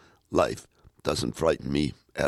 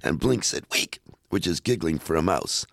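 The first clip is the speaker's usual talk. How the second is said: lively, sing-song story-poem recital; poem reading; 3 semitones higher than usual. Acted. Host reading Custard the Dragon on air, sing-song recital. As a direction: bounce through the rhymes for the kids. Reads rest of the poem aloud.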